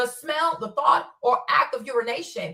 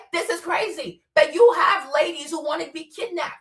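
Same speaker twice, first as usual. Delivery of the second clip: ordinary talk, nothing marked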